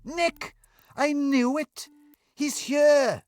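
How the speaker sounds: very high, thrilled cry; he knew it all along; excited outburst. Acted. Daniel hears of his brother and bursts out excitedly.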